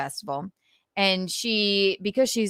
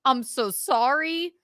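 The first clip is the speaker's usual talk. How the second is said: mock mortified apology; 4 semitones higher than usual.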